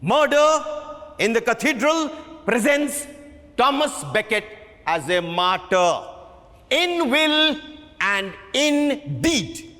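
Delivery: emphatic lecturing voice; impassioned director. Acted. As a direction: preach the play's meaning to the cast. Director lecturing cast passionately.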